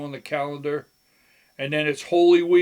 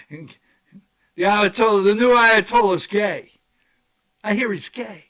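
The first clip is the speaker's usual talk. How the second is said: laughing; 5 semitones higher, 6 dB louder than usual. Real, not acted. Mocking joke about the Ayatollah.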